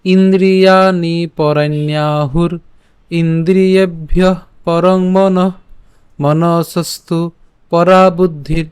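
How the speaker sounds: measured, chanted reading of a Gita shloka; slow devotional verse recital; Sanskrit verse recitation. Shown as a demonstration. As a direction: recite each half-line with a pause, like a teacher. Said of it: "শ্লোকটি আমরা শুরু করে পাঠ করলে".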